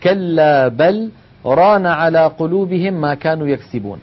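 measured chanted recitation; Quranic recitation. Shown as a demonstration. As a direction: recite the verse in tajweed style. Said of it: "وهو قوله تعالى". (تلاوة مجودة)

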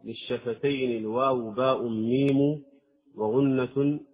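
إنشاد بيت الجزرية بتأنٍ; أنشد المتن; verse recitation. Acted. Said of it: "قال رحمه الله". (إنشاد متن الجزرية)

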